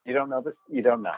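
lightly mimicked TV interviewer, sing-songy; Keith Morrison. Imitating a broadcaster questioning someone, lightly sing-songy. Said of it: "he's the one that always is like".

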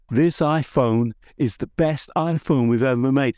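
keynote-style American accent imitation; Tim Cook accent. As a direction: deliver it like a proud American tech CEO on stage. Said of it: "Excuse the, the accent".

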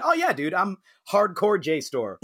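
hammed-up bro boast; mock dude voice. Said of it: "when Jasper was like".

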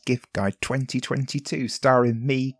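slow, careful enunciation; every word spelled out slowly; over enunciating. Real, not acted. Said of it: "slowly enunciating every word".

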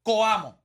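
"Coamo" dicho despacio, con la o y la a separadas; pronunciación cuidada. Shown as a demonstration. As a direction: pronuncia "Coamo" marcando la o antes de la a. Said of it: "No hay manera de tú dudar cuando tú dices". (pronunciación cuidada de "Coamo")

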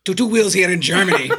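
put-on a laughing, failed German accent; bad German accent. John reading a letter in a bad German accent. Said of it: "that is not the German accent".

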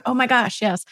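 emphatic realization. Retold or imitated. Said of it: "so emphatically, as I was like".

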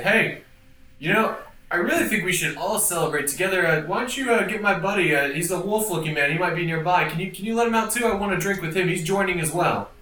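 persuasive charmer. Acted. Player voicing persuasive character.

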